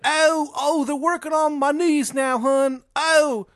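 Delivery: high, loud wail of a man being tortured; tortured Shithead Steve. Acted. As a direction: cry out in mock agony, far above your own pitch. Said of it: "like, tortured".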